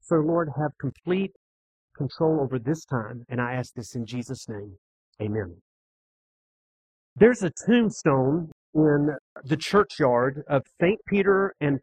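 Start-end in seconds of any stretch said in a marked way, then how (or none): 0.0-5.6 lower, softer prayer voice, falling away to the Amen. Real, not acted. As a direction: pray quietly and reverently to close. Closes an opening prayer.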